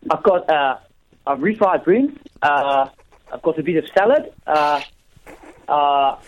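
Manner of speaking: put-on South African voice; South African accent. Caller describes his lunch to the host, South African accent. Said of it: "You do South African".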